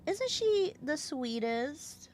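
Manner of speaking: high cooing over a pet; doting pet talk. Real, not acted. Owner showing off the cat, doting.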